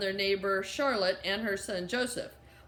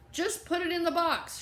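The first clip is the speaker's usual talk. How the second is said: monotone; 7 semitones higher than usual. A narrator's reading. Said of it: "in a monotone voice".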